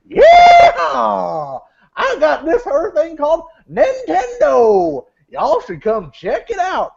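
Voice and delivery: high, drawn-out cowboy yell in a mock Japanese accent. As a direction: ham up a Japanese Wild West dude. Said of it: "Except for in a Japanese accent".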